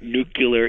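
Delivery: nuclear said NOO-kyuh-ler; disputed variant pronunciation. Shown as a demonstration. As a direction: say nuclear as if spelt nucular. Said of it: "is an incorrect pronunciation".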